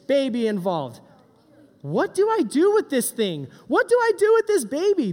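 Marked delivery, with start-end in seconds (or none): 1.8-5.1 mock panic. Panicked new parents voiced.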